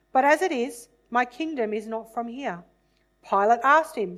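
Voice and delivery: measured, dramatic Bible reading voice; scripture reading. A narrator's reading. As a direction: read the passage aloud as solemn scripture. Reads the Passion scripture aloud.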